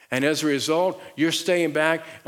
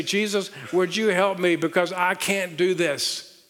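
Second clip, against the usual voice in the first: pleading prayer; 3 semitones higher, slower than usual. Pretend. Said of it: "you're gonna say".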